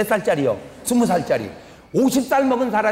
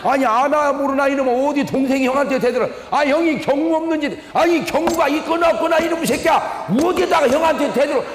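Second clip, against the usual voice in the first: high, rising furious rant; father shouting down his grown son, high and heated; angry father; 6 semitones higher than usual. Retold or imitated. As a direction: tear into the son like an enraged father. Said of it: "난 뭐라 그래요?".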